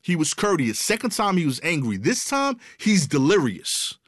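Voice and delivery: comic escalation. Retold or imitated.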